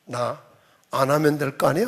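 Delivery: low grumbled refusal, rising at the end; grudging refusal. Acted. Church member backing out when trouble comes, low grudging refusal. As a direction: throw it back low, tipping up on the last word. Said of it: "뭐라고 그래요".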